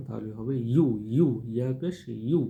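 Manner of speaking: ইউ said firmly and loud. Shown as a demonstration. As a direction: give ইউ a hard push. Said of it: "এটা একটু শক্ত করে বলার চেষ্টা করবেন".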